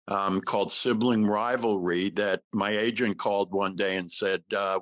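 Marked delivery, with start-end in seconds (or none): none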